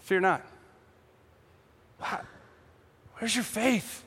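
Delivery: very soft, calm acted reply; hushed, composed questioning; unpanicked. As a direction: repeat it quietly, unruffled. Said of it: "but he doesn't panic".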